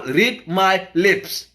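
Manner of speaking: very slow, deliberate catchphrase, word by word; lightly put-on presidential voice, drawn out; George Bush. Activist warning the government they won't take this, light George Bush impression. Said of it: "In my George Bush voice".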